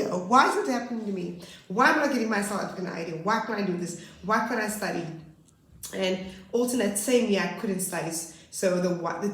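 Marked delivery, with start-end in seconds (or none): 0.0-5.1 pleading lament. Retold or imitated. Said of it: "I cried even more then".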